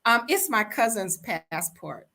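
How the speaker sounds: high, nervous giggle into excuse; mock nervous giggle covering a lie; nervous laugh. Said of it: "And she said".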